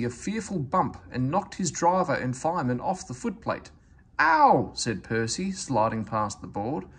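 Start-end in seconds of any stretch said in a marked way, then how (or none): 4.2-4.7 high loud yelp of pain; pained cry. A narrator's reading. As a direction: cry out as you get bumped. Percy bumped hard.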